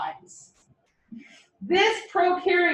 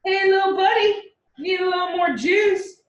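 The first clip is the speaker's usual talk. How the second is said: playful call; 5 semitones higher, 3 dB louder than usual. Acted. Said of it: "He goes".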